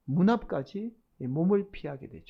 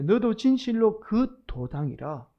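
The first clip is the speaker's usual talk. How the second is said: slow, slightly raised accusation; mild outcry; 3 semitones higher, 4 dB louder than usual. Acted. Crowd accusing Peter, slow and mildly called out. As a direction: accuse deliberately, calling it out. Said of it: "베드로를 향해서 이렇게 외쳐요".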